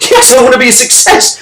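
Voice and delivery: high-pitched acted desperate answer; desperate yell. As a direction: cry it out as the desperate kid. Gasping kid answers CEO desperately.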